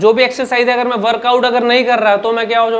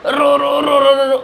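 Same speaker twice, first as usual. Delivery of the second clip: रो shouted higher with strain, over and over; forced syllables; 4 semitones higher than usual. Shown as a demonstration. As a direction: push each रो out too hard to show the wrong way. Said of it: "अक्षर को मुंह से ज़बरदस्ती निकाल रहा हूँ".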